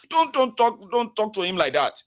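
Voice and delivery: half-hearted hammed-up rebuke; mock scolding. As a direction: scold them on his behalf. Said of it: "this was me, oh, fighting on your behalf".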